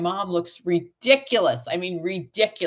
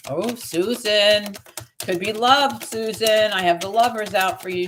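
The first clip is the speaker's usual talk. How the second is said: louder and higher, drawing out Susan slowly; excited calling out; 4 semitones higher, 3 dB louder than usual. Real, not acted. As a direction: call out to Susan with a big reveal. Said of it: "You're yelling".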